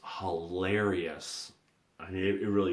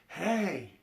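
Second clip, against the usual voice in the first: yelling across; 12 semitones higher than usual. Retold or imitated. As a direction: shout over to him from far away. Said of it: "And I yelled over to him".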